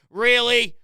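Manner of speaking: short incredulous "Really", falling at the end. Real, not acted. Host ranting about a terrible lineup, incredulous. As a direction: say "Really" once in sharp disbelief. Incredulous rant, first of two takes.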